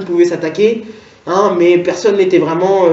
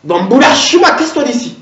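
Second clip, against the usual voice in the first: a hint of a sneering cashier; mock cashier telling him to get lost; hostile cashier; 3 semitones higher than usual. Cashier sneering at a customer buying the book, mild mock hostility. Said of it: "la caissière qui me guette en mode".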